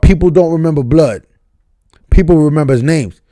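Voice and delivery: quoting the line wrongly with people, unaware of the slip; misquoted line. Real, not acted. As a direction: recite it confidently with people instead of history. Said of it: "No, not people".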